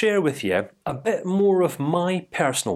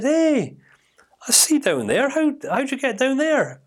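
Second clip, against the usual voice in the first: calling down; 11 semitones higher than usual. Retold or imitated. Mate calls down into hole.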